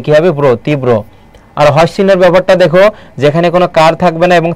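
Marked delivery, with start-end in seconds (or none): 0.4-0.9 ব্র as "bro", then তীব্র as "tib-bro"; syllable-by-syllable pronunciation. Shown as a demonstration. Teacher sounding out ব্র, then তীব্র as "tib-bro", instructive. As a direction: double the b in তীব্র, ending in "bro". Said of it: "ব্র হবে।".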